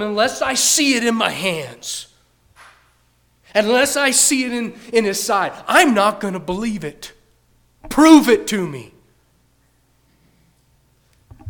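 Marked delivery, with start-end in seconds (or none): 0.0-8.9 louder, insistent, refusing to believe; defiant loud demand. Acted. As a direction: hammer out the doubt.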